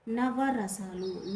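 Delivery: నవరసాలు drawn out syllable by syllable, very slowly; slow teaching. Shown as a demonstration. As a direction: stretch నవరసాలు out slowly for the class. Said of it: "నవ, నవ అంటే ఎంత?". (నవరసాలు నెమ్మదిగా, ఒక్కో అక్షరం విడదీసి)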